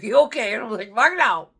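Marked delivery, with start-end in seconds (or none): 0.0-0.5 high, loud question through laughter; laughing. Retold or imitated. Amazing girl checking on her shaken friend, laughing. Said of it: "She's laughing". 0.9-1.6 high, loud blurt breaking into laughter; hysterical laughing. Retold or imitated. Shaken soldier answering the girl's check, laughing hysterically. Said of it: "like, hysterically".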